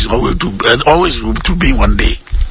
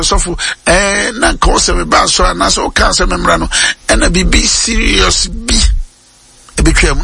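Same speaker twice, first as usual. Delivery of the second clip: raised quoted plea; 4 semitones higher than usual. Retold or imitated. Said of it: "na ɔka sɛ".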